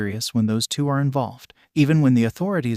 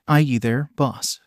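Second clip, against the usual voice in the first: put-on New York accent; slower than usual. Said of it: "he greeted with a gruff New York accent".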